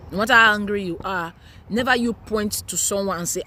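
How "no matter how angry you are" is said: repeated with a louder push. Shown as a demonstration. Mom repeating her warning to viewers, louder. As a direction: hammer the warning home, louder.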